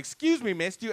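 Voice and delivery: high-pitched, sheepish approach. Retold or imitated. Vulnerable man approaching a woman on the street, sheepish. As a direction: open high and timid, imitating a shy request.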